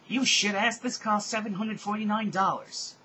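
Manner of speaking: loud, high-pitched fury; outraged yell. Acted. Rodolphe after her shirt gets cut, outraged yelling. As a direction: shriek in outrage over ruined clothes.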